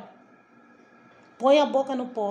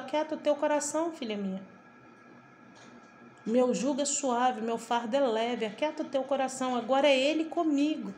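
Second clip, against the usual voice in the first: gentle voice of God; 3 dB quieter than usual. Retold or imitated. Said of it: "o Senhor falou".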